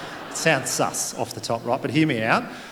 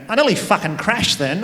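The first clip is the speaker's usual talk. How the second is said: shaken mum; 7 semitones higher, 5 dB louder than usual. Retold or imitated. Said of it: "looked at me and went".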